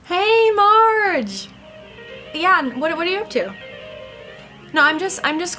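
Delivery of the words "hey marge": bright greeting called across the room; calling out. Acted. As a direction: call out to a friend, drawn out. Calling out to a friend.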